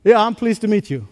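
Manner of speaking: offhand greeting without looking up; distracted. Shown as a demonstration. Preacher greeting someone while looking elsewhere, offhand. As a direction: toss it off, not really paying attention. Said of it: "without looking at the person".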